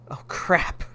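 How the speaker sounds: whispered oh crap; caught whisper. Acted. Son caught by his mother, whispering.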